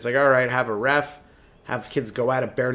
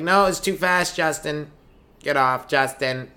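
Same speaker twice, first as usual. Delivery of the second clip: nagging mom; 2 semitones higher, slower than usual. Acted. Overprotective mom scolding.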